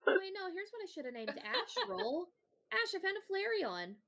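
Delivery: excited. Real, not acted. Excited naming joke.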